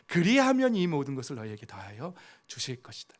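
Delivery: 예수님 말씀을 조금 더 크게 엄숙히 인용; quoting Jesus. Acted. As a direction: read out the verse with lightly voiced authority. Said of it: "예수님도 이렇게 말씀하시는 거예요".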